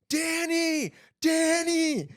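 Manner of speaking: high frantic calling of a name; retold panicked scream, pitched high. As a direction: yell for help in mock panic. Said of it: "I'm screaming bloody murder".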